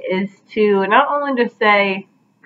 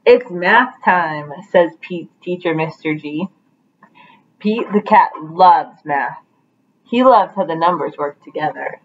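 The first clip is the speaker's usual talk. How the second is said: lively picture-book read-aloud with voiced characters; reading to children; 2 semitones lower than usual. Teacher reading Pete the Cat to her class, animated storytelling.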